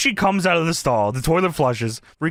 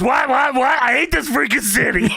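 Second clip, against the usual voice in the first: higher, rapid mock outburst; imitating exasperated wrestler; 4 semitones higher than usual. Podcaster imitating wrestler fed up with the city, mock exasperation. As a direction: act out fed-up heckled wrestler, half laughing. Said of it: "And Kurt goes".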